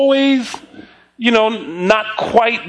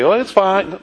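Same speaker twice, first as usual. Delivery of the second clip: insincere brush-off. Shown as a demonstration. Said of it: "don't say it's fine because it seems like the nice Christian thing".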